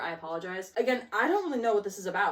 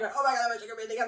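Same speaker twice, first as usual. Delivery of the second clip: mock gushing; much faster than usual. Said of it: "Not, like, so much".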